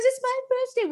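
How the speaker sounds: high giddy imitation of a colleague; Roger, thrilled. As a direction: reveal the coincidence with glee. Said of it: "he goes".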